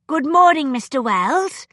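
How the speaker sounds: put-on a stiff, proper greeting from a young lady; mild formality, each word set just so. A narrator's reading. Edwina greets her teacher formally from the doorway, very formal. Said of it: "Edwina said very formally".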